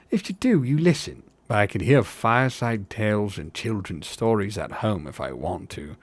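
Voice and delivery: lightly voiced dismissive tavern hobbit; a hint of a doubting rustic; sceptical hobbit.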